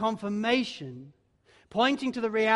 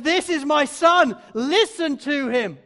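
voice of God the Father; 6 semitones higher, 10 dB louder than usual. Acted. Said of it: "and says".

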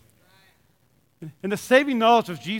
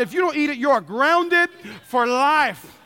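mock threat; 3 semitones higher than usual. Threatening son playfully.

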